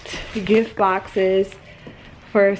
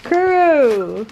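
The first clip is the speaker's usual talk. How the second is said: tender; 3 semitones higher, much slower than usual. Real, not acted. Telling partner the dog missed them.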